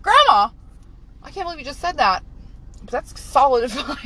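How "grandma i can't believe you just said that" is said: higher, louder shocked cry; mock-scandalized at grandma; shocked grandchild. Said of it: "I'm like".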